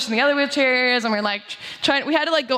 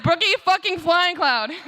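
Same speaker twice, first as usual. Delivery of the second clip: imitating Brookie; 6 semitones higher than usual. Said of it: "that's what she would say".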